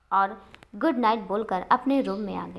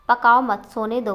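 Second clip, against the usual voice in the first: louder, a sudden irritated snap; annoyed outburst; 2 semitones higher, 7 dB louder than usual. A narrator's reading. Wife snapping at husband to stop nagging, loud irritated. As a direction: cut him off, fed up and sharp.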